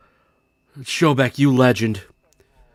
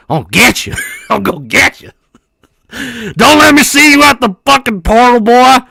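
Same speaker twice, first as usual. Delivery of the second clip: threat building to a loud yell; hammed-up furious shouting, rising in pitch; mad threat; 5 semitones higher, 5 dB louder than usual. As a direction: burst out from seething into yelling. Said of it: "this kid is fucking so mad".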